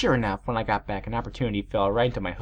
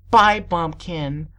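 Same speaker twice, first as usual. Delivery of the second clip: slow, loud, mocking goodbye; haughty; 5 semitones higher, 6 dB louder, much slower than usual. A narrator's reading. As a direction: draw out a scornful farewell. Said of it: "I said while laughing haughtily".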